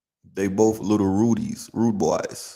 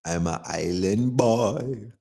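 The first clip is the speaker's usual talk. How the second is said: slow serious; 3 dB quieter, slower than usual. Acted. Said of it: "I'm taking this shit serious".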